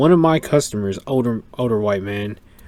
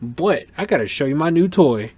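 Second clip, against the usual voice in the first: quoting Cecil excitedly; 5 semitones higher than usual. Retold or imitated. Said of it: "He's like".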